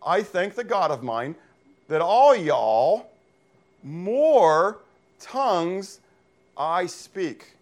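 slow, word-by-word reading with long pauses; literal Greek word order. Shown as a demonstration. Preacher slowly reading Paul's literal Greek word order. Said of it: "so he says, though, Eucharisto".

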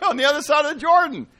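amused quick answer; laughing. Real, not acted.

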